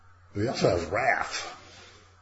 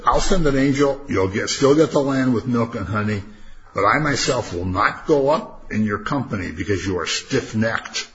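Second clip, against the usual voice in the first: stern God; 3 semitones higher, 6 dB louder than usual. Acted. Voicing God's stern warning.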